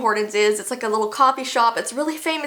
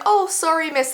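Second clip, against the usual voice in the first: imitating a higher-voiced, polite apology; 5 semitones higher than usual. Young counter worker apologizing to a rude customer, imitated politely. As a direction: say sorry like a courteous, flustered worker. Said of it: "he's being really polite, he's apologetic".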